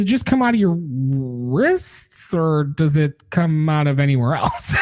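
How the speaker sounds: half-laughing shout of the joke line; shouted punchline. Retold or imitated. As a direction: shout the cheeky question out.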